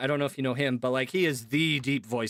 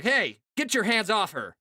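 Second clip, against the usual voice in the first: a tough guy line, louder and higher, up in the head; 6 semitones higher, 3 dB louder than usual. Shown as a demonstration. Showing the wrong way to sound tough, in a higher head voice. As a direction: bark it like a movie hero. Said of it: "if I were to sound like a tough guy".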